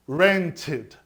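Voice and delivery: RENT-id, ending sounded as "id"; "Rented" with the ending pronounced "id". Shown as a demonstration. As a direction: say "Rented" with a full "id" at the end. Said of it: "Por que aqui tá rented".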